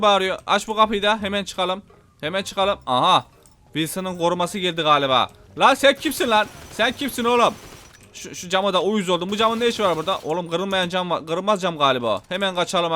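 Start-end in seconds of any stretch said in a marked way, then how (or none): 5.6-7.5 real surprise at the guard; startled challenge. Real, not acted. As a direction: challenge the stranger sharply. Bodyguard appears.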